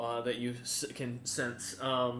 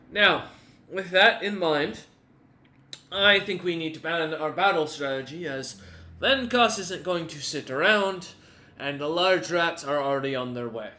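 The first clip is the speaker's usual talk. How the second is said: lord planning battle; 5 dB louder than usual. Acted.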